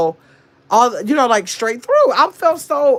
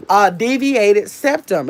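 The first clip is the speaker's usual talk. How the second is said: DEVIATED SEPTUM drawn out slowly, word by word; slow and deliberate; slower than usual. Real, not acted. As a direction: spell out "deviated septum" at a slow, measured pace. Repeats the term deliberately for viewers.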